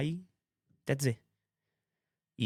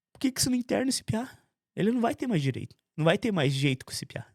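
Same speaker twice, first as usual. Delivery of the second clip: a much higher, pleading complaint; exasperated brother; 7 semitones higher than usual. Retold or imitated. Middle brother pressing the mother to commit him, high exasperated voice. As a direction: push the mother hard, exasperated.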